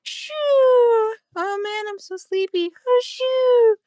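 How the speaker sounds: high fake sleepy shooing; hammed-up fake sleeper, waving off; pretending to sleep. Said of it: "fake snoring".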